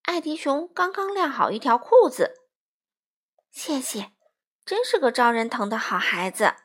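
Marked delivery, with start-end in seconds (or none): 3.5-6.5 cheerful. Acted. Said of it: "欢妈妈乐呵呵地说".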